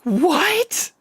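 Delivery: high squeaky shocked what; mock shocked squeal; Mark's shocked what. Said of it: "He's just like".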